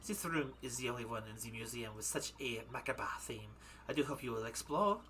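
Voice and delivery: put-on waxwork madame with a German accent. Madame invites visitors to explore, German accent. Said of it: "gonna freaking go back into German again".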